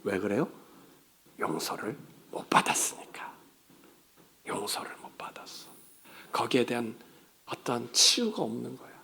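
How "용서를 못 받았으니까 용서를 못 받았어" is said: 용서를 못 받았으니까 whispered low and soft; preacher whispering the sad reason to the church; hushed whisper. Acted. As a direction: drop to a grave whisper. Grave answer, hushed.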